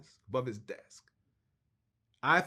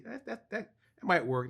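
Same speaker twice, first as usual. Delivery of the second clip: words broken by a real laugh; 5 semitones higher than usual. Real, not acted. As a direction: stammer through a laugh. Laughs while retelling reply.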